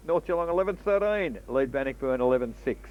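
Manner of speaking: quick radio football call; country radio footy commentary; live play-by-play. Acted.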